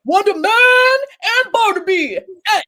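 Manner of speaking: high, loud triumphant announcement; excited reveal. Real, not acted.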